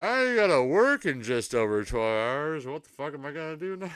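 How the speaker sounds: high, loud mock-panicked wail; whiny panicked self. Streamer acting out his groggy evening wake-up in shrill panic. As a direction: play yourself waking up in dismay. Imagining himself waking at 6pm.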